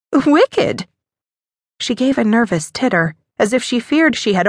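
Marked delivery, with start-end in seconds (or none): 0.1-0.9 wicked lifted high and teasing; coy emphasis. A narrator's reading. Mother flirting nervously with the viscount, wicked sung high. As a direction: tease the word wicked upward.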